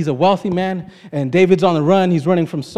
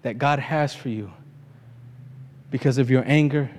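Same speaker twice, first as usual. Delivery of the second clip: softer, low earnest plea to David; soft pleading; 6 semitones lower, 8 dB quieter than usual. Retold or imitated. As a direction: talk him down gently. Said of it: "she tells him".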